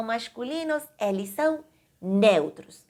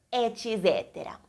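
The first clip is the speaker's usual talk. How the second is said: whisper; 5 dB quieter than usual. Real, not acted. Teacher aside to class.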